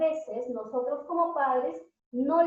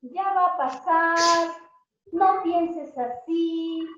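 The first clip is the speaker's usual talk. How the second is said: dismissive comfort; 3 semitones higher, 3 dB louder, much slower than usual. Retold or imitated. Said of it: "qué te han dicho las otras personas".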